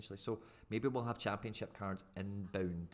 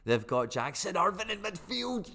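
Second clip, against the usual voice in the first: higher, slower, savouring each word; excited; 9 semitones higher, 6 dB louder, slower than usual. Real, not acted. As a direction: gloat over the name. Repeats it, thrilled.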